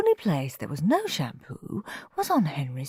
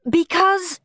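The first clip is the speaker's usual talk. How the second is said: higher, firm falling word; Mum; 12 semitones higher, 4 dB louder than usual. A narrator's reading. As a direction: say it like a fed-up mother. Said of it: "said Mum".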